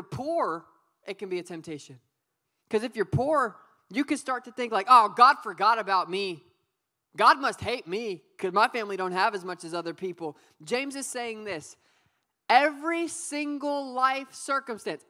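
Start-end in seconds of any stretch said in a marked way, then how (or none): 4.9-10.4 despairing cry. Pretend. Voices a poor person's despair.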